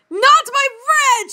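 high, loud, drawn-out yell; slow, high-pitched protesting scream. A narrator's reading. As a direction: yell it in acted outrage. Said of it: "she screamed at her boyfriend".

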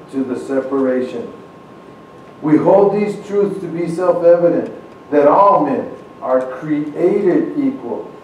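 measured, solemn reading of a founding text; formal recitation. Acted. Speaker reciting the Declaration to the congregation, solemn formal reading. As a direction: read it like a historic document, steady and grave. Reads Declaration of Independence aloud.

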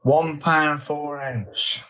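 slow, savoured announcement; drawn-out reveal. Real, not acted. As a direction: stretch each word of the weight out. Announces surprisingly big weight.

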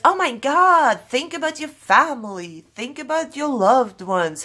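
high, emphatic mock appeal; imitated alarmed pleading. Imitating everybody reacting to suicidal talk, high alarmed pleading.

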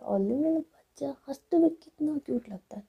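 put-on affectionate lisping baby talk; cooing baby talk. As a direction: fuss over a sweetheart like a baby. Rui babies laughing Jiya.

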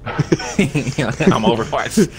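"I'm Overwatch" drawn out slowly, laughing; slow dramatic soldier line. Shown as a demonstration. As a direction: say "I'm Overwatch" like a movie sniper. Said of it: "You supposed to say".

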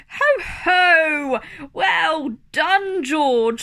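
proud dad cheering his son; jolly Daddy Pig. Acted. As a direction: boom out a proud chuckle. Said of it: "snorts Daddy Pig".

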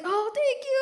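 very high, delighted thank you; giddy thanks. Retold or imitated. Answering her mother, high and overjoyed. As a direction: squeal the thanks. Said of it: "I was like".

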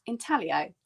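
"intaglio" with the G silent. Shown as a demonstration. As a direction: say "intaglio" as in-TAL-ee-oh, no hard G. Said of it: "It's a silent G, so we pronounce it".

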